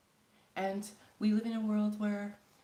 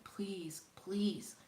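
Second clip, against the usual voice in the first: please whispered as a prayer; retold prayer from the bed, whispered; 2 semitones higher than usual. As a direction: breathe it as a plea to God. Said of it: "And I'm like".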